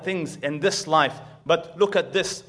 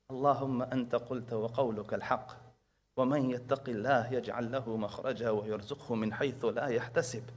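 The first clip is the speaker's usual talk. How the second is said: quiet prayer; 3 semitones lower, 6 dB quieter, much faster than usual. Retold or imitated. Little girl prays alone.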